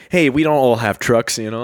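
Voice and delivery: ordinary talk, nothing marked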